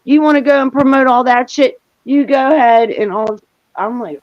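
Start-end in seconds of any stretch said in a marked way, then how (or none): 0.0-2.9 higher-pitched retold telling-off; mildly heated mimicry, pitched up; flipping out. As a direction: imitate someone angrily cutting a friend off. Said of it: "he's flipping out on me".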